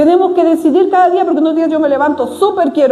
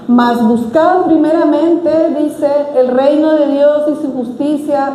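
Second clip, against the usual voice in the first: scripture reading. Real, not acted. Pastor reads Matthew to the congregation, solemn. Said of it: "Mateo seis treinta y tres".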